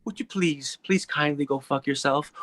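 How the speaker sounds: gently courteous, as if asking a favour; polite request. Shown as a demonstration. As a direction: put it very politely and kindly. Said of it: "you could say it like this".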